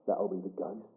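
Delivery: a hint of a dry Suffolk grandmother; understated impression of an old nan; grandmother's voice. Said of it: "And she said".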